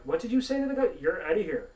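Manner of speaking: high, loud incredulous telling-off; acted outraged dismissal; mock angry boss. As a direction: imitate a boss firing someone on the spot. Acts boss firing him.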